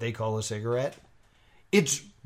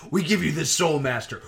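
laughing; 2 semitones higher, 4 dB louder than usual. Retold or imitated. Quoting the clip's creepy line.

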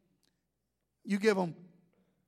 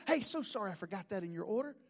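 apologetic worker; 5 semitones lower, 10 dB quieter, faster than usual. Retold or imitated. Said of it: "they were very nice".

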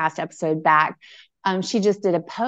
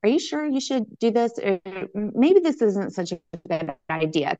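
mild mock small voice, pitched up a little; tiny inner voice. Intuition questioning her before the restaurant, lightly voiced tiny voice. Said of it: "a little tiny little voice that said".

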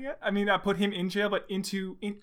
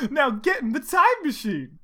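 high, loud acted command; shouted; 8 semitones higher, 7 dB louder than usual. A narrator's reading. Tails hurrying Sonic into the machine, shouted. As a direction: order it out loudly. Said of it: "shouted Tails".

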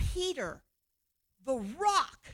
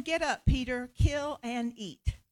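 slow divine command. Acted. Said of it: "a voice came to him".

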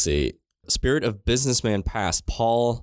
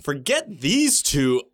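laughing; 4 semitones higher than usual. Retold or imitated. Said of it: "Be like".

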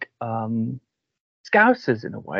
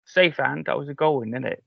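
put-on Cardiff street accent; slower than usual. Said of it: "So they'd say".

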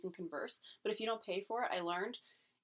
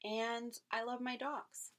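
asking someone out; 2 semitones higher than usual. Shown as a demonstration. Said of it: "you need to say hello in a good way".

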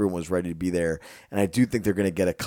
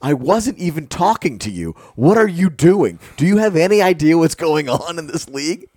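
higher, louder mock outburst at the ref; imitating angry player; 8 semitones higher, 6 dB louder than usual. Retelling Kevin Durant yelling at the lady ref, mock angry. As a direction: channel a player furious at a referee. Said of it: "He goes".

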